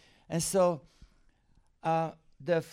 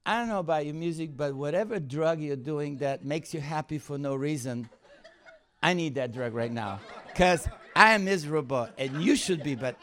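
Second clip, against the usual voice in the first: laughing complaint; 5 dB louder than usual. Retold or imitated. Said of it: "I go".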